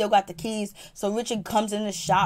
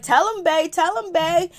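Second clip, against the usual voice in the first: high, raised, insistent mimicry; imitated egging on; 8 semitones higher, 4 dB louder than usual. Sky urging bae to tell him, high insistent mimicry. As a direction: chant it high and pushy, mimicking her.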